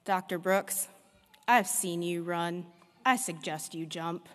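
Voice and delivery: slow, unhurried southern drawl; a hint of a dry Kentucky drawl; Doctor Whitlock's southern drawl. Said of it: "in his southern drawl".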